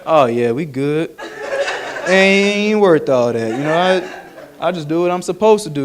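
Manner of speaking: lightly voiced animals taunting the snake; mocking animals. Animals laughing at the snake's lost legs, mild mock teasing.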